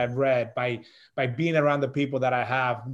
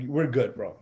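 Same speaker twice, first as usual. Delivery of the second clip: calming self-talk; slower than usual. Retold or imitated. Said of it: "in my mind, I'm like".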